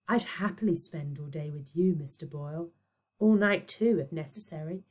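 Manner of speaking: whispered, flirting breath; breathy. Acted. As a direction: seduce him in a whisper. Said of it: "said Aphrodite breathily".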